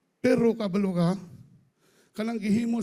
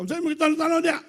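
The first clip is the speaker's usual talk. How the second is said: mock suspicious wife; 6 semitones higher, much faster than usual. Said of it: "Ingon ang asawa".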